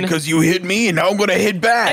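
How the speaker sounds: put-on tough retaliation; mock-menacing comeback; fighting voice. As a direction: threaten payback in a tough act. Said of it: "This is my fighting voice".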